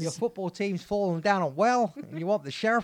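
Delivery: hammed-up Australian that slips into American; attempted Australian accent. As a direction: do a shaky-quality mock Australian accent. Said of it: "What kind of accent was that?".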